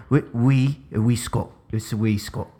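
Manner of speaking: mock Scottish, feeling for the accent. Practising Scottish for a co-host, mock Scottish accent. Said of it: "Scottish is a little low".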